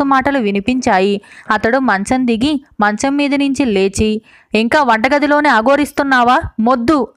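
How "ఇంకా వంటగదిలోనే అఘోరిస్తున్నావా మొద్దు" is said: mildly scolding, a touch of irritation; half-hearted snap at the wife. Acted. Husband scolding his wife in the kitchen, mildly irritated. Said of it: "భార్యను కసిరాడు".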